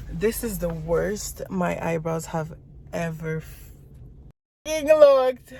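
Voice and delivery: slow then loud outburst on looked; upset. Real, not acted. Upset at ruined eyebrows.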